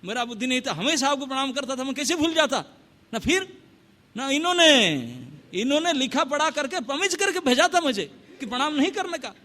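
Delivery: high, anxious defence; a frightened king shifting the blame; pleading excuse. Acted.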